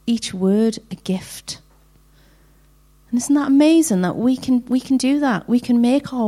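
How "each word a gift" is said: whispered. Acted. Reading scripture softly to women.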